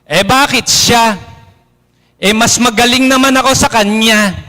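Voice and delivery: whiny mock grumble, lightly voiced; mock envious whine; jealous complaint. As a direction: sulk like a passed-over parishioner. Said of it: "ito yung isang halimbawa".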